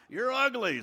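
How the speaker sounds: high parrot squawk; a pet bird's high-pitched taunt; parrot insult. Acted. Parrot insults the lady outside the pet store, squawking. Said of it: "the parrot would say".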